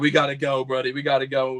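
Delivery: words spoken while laughing. Retelling an opponent's words on the way down: imitating Toby Farley laughing while talking. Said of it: "literally laughing on the way down".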